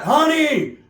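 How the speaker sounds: high, stretched-out holler; mock high-pitched call; calling out honey. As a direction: call for the wife, voice swooping up. Acted call to the wife.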